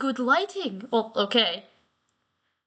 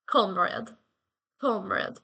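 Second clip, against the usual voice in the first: put-on slightly faded Russian accent; 5 semitones lower, slower than usual. Retrying comrade after it weakened, in a mock Russian accent. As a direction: try the Russian accent, repeating the word. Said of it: "the Russian accent is weakening".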